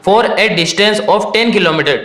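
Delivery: slow, deliberate question reading; careful reading. Shown as a demonstration. Teacher starts the key part of the question, slow and careful. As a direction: read it out carefully and slowly. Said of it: "question को ढंग से read करना".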